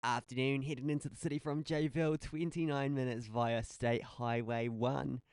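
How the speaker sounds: lightly put-on traffic report delivery; radio traffic voice. Shown as a demonstration. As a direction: read it like a radio traffic update. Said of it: "your more radio voice".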